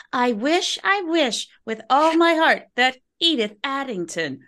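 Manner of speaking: slow build to shouted dies; dramatic wish. Acted. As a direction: savor it, then shout the last word. Granting a death wish dramatically.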